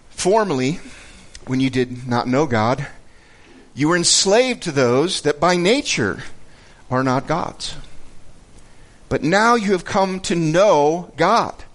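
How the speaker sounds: emphatic, measured Bible reading; deliberate pulpit reading; scripture reading. Acted. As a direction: read the verse out with weighty pauses. Reads scripture aloud.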